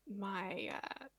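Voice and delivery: halting pause after my; audible pause. Acted. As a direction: stall on my, uh before partner. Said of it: "her audibly pausing before saying".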